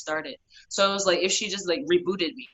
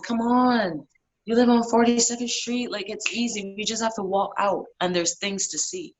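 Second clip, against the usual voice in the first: coaxing friend voice; 4 semitones higher than usual. Retold or imitated. Friend coaxing her to go outside.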